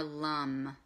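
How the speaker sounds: "Lum" with an uh vowel and a held hum; careful pronunciation. Shown as a demonstration. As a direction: say "Lum" to rhyme with hum, drawing out the m. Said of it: "the way you pronounce it is more".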